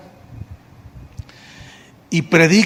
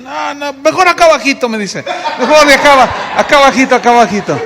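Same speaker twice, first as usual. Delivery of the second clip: higher, mock-sheepish; bashful refusal; 7 semitones higher, 5 dB louder than usual. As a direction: play the humbled brother saying no. Brother declines preaching again. (hermano que se niega, en broma, más agudo)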